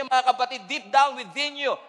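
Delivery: ordinary talk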